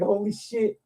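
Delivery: breathy whisper under his breath; whispered holy shit. Retold or imitated. Whispering in the GameStop while the angry lady yells. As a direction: hush it so the yelling lady won't hear. Lady comes back yelling.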